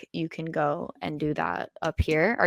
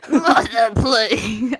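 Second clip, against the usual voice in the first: mock French accent; 4 semitones higher, 5 dB louder, much slower than usual. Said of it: "Your French accent is good".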